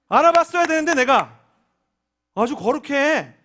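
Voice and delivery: mock him with biting sarcasm; sarcastic anger. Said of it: "비꼬는 것처럼 화를 내시니까".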